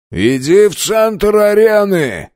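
high, slow barked order; commanding shout. A narrator's reading. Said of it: "бросил один из верховных".

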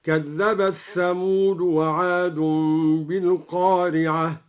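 كذبت ثمود with the t run straight into the th, slow; merged tha into ta. Shown as a demonstration. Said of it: "وأدغم الثاء في التاء".

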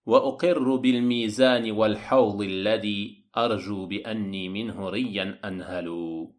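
measured Arabic verse, falling away at the end; poem recitation. Acted. Teacher quoting the author's poem to listeners, verse recitation.

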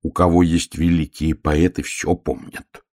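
measured, slightly pompous little bear; self-important. Acted. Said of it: "важно сказал медвежонок". (важно, с достоинством)

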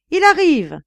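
very high-pitched heralding cry. A narrator's reading. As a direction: relay the news in a high call. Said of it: "dit un autre encore plus haut".

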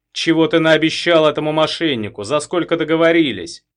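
loud, high angry shrieking; screeching furious wife. Acted. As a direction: scream accusations at a cheating husband. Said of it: "Из этого верещания".

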